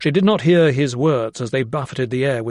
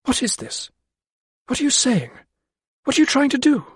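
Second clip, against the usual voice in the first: high, tearful questions, building; tearful pleading; 12 semitones higher than usual. A narrator's reading. Lydia turning from anger to tears before the men, tearful. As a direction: voice breaking into tears. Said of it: "Her anger had turned to tears".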